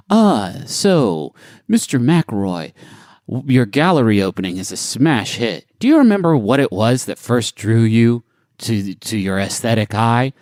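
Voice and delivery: slightly low, measured interviewer; lightly voiced reverent interviewer; gallery interviewer. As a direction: pose a polite arts-interview question.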